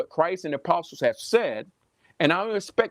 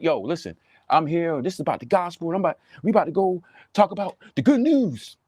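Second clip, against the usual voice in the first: mock hyped preacher; 2 semitones higher than usual. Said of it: "I'm talking like that".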